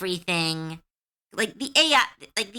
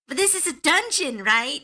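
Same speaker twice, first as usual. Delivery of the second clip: player's question; 9 semitones higher than usual. Retold or imitated. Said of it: "one of them goes".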